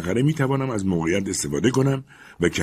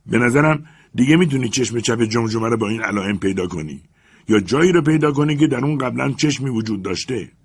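explaining master; 4 semitones higher, 5 dB louder than usual. Acted. Legrand explains.

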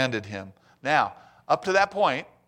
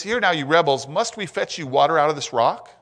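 louder, indignant rebuke; impatient Moses; 3 semitones higher, 5 dB louder than usual. Retold or imitated. Moses scolding the complaining people, raised voice. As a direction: scold the grumbling crowd as Moses. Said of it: "So he says".

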